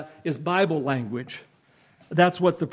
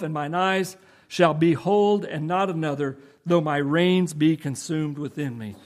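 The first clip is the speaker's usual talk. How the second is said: solemn scripture reading. Acted. Preacher reads Job's Redeemer verses aloud, solemn.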